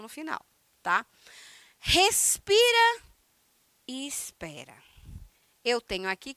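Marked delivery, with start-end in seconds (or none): 1.8-3.0 drawn-out high "Respira", stretched long; take a breath. Shown as a demonstration. Teacher showing the pause with a high drawn-out breath. 3.9-4.8 whispered "e espera", voiceless and hushed. Shown as a demonstration. Teacher whispering to the class to wait at the pause.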